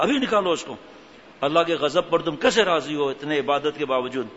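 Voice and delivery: loud scolding. Retold or imitated. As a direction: scold the fake saint firmly. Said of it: "خوب زور سے آواز سے کہا".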